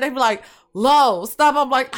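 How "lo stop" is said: mildly annoyed mock scolding, a bit loud; mad friends. Mad friends telling her to stop laughing, mildly exasperated imitation. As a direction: tell a friend to quit it, half-exasperated. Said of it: "my friends get so mad".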